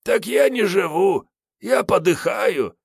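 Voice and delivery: high, slow hammed-up lament; cosmic despair. Hungover Kiryay lamenting to Sergey, mock anguish. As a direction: moan like the world is ending. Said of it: "с вселенской тоской в голосе".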